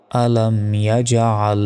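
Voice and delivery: আলাম ইয়াজআল slowly, bounced j and throaty ain; ইয়াজআল with a hard j, never z; correct pronunciation demo. Shown as a demonstration. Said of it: "এখানে সঠিক উচ্চারণটা হচ্ছে".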